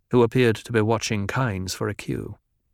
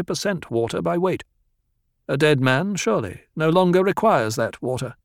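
calm, explaining lecture tone; lecturing; 6 semitones higher than usual. Acted. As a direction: set him straight like a teacher. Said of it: "spoke in a lecturing tone".

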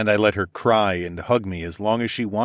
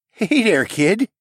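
raised, loud fatherly greeting; chuckled; 12 semitones higher, 5 dB louder, slower than usual. A narrator's reading. Dad clutching his returned son, chuckling. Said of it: "my dad chuckled".

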